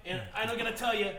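lightly voiced burpy mad scientist; a hint of a cranky grandpa genius; Rick voice.

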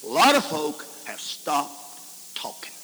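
slow, hushed whisper. Acted. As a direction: lean in and breathe it out.

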